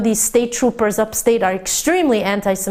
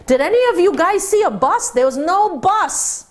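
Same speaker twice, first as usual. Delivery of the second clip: incredulous appeal; 9 semitones higher than usual. Retold or imitated.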